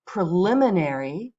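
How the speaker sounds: modelling a vocabulary word; teacher models the word. Shown as a demonstration. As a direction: model preliminary for the class to repeat. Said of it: "Let's just say these words out loud".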